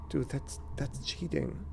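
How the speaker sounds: soft, hushed, near whisper; choked whisper. Acted. Told the friend would let go, choked whisper. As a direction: barely get the words out. Emotional whisper mid-plea.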